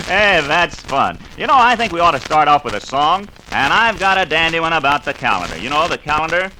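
put-on upbeat kids' radio host; bright, eager voice rallying the children; cheery 1950s educational film.

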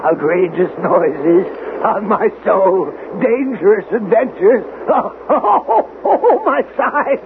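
mocking laughter between words; laughing. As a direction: laugh until your sides hurt. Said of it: "What are you laughing at?".

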